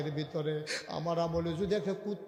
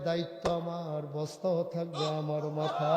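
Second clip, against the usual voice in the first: gentle insistence. Acted. Umar answering his workers, calm insistence. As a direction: state it calmly, no shouting. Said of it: "Umar মুচকি হেসে কয়".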